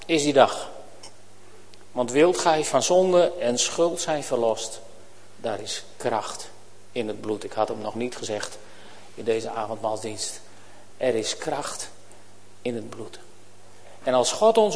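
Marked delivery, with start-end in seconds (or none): 1.9-7.4 gentle, reverent hymn words; soft hymn quote. Real, not acted. Quotes an old hymn line. 11.0-13.2 gentle, reverent hymn words; soft hymn quote. Real, not acted. Repeats the hymn line.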